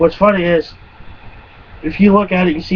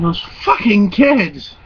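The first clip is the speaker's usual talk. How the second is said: grumbling bike rider; 4 semitones higher, slower than usual. Retold or imitated. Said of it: "that guy on his bike was going".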